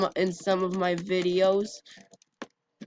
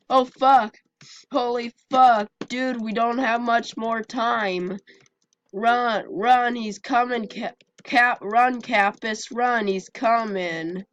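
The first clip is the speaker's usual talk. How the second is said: urgent, scared, pushing to flee; breathless fright; 3 semitones higher than usual. Real, not acted. Attacker chasing him.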